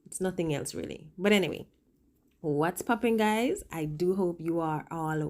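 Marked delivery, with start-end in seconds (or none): 0.1-1.1 speaking through a swollen lip; slightly puffy lip on the words. Real, not acted. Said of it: "And now my lip is swollen".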